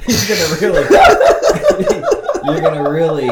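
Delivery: words broken by high laughter; cracking up mid-sentence; laughing. Real, not acted. Laughing through his own joke.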